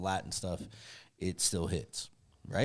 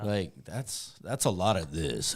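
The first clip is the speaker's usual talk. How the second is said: normal talking voice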